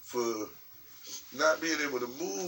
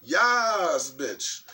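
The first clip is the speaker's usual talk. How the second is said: hyped catchphrase; 2 semitones higher, 5 dB louder than usual. Real, not acted. Redoing the greeting after clearing the throat, loud and hyped. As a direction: belt out the catchphrase, then drop off.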